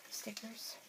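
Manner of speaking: whispered question. Real, not acted. Wondering aloud at the sheet.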